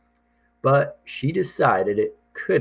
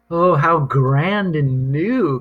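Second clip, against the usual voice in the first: a lightly voiced admiring mother, a little higher; mother's delight; 5 semitones higher, 4 dB louder than usual. A narrator's reading. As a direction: gush over the new fridge.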